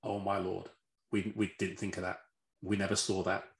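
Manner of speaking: stunned realisation. Retold or imitated. Team realising what they missed, retold softly as mildly stunned. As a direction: lightly voice their quiet dismay. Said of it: "you could see their sort of faces going".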